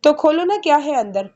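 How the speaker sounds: bright eager rise on the question; eager to see inside the box; lightly excited girl asking to open it. A narrator's reading. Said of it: "excited होकर बोली".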